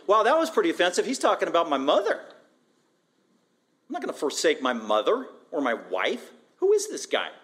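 mock offence, swinging up and down; offended onlooker. Preacher voices a crowd member hearing Jesus, offended. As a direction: act out an affronted listener.

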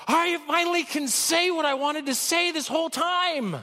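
high, elated voice of someone finally able to speak; imagine the relief and cry it out high; overjoyed, high-pitched exclamation; joyful outburst. Acted. Imagined healed person's joyful outburst.

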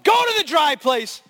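loud high order; shouted command. Retold or imitated. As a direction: send it away with a shout. Pastor commands the spirit.

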